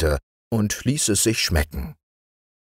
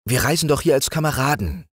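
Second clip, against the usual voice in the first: frightened king; 10 semitones higher, faster than usual. A narrator's reading. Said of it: "der sich in dem fremden Wald fürchtete".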